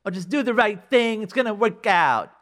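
mock show advice. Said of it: "This is not one of these, like, shows".

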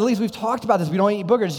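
mock-stern telling off of a toddler; scolding dad. Dad gently scolding his daughter.

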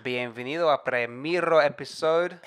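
booming Spanish ring announcer intro; lucha libre announcer. Shown as a demonstration. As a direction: announce it like a wrestling MC. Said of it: "can you say".

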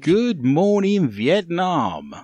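drawn-out Good morning, Vietnam; radio DJ shout. Retold or imitated. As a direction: belt it like a radio DJ. Quoting the film catchphrase.

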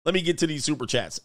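mock exasperated married man. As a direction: play the husband caught out on stream. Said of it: "married men like".

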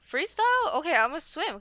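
imitating her confused kid self. Retelling her kindergarten self.

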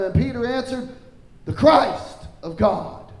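emphatic, declarative Bible reading; scripture reading. Acted. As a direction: read the verses out to a congregation. Reads scripture to congregation.

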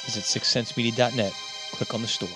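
upbeat promo voice over music; ad read. Acted. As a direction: read it like a podcast ad.

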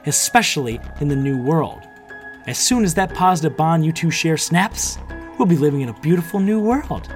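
high, loud gloating triumph; wicked grin. A narrator's reading. Villain promising a new world once the bond snaps, gloating. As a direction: revel in it through a grin. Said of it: "her wicked grin back".

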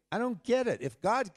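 high-pitched, questioning protest; mock-exasperated argument; arguing with God. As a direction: challenge God, pitch jumping up on the complaint. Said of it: "I was arguing with him".

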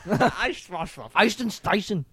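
slow fake German through laughter; laughing German gibberish; mock German accent. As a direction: drag out the fake German words. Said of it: "You have to say in the accent".

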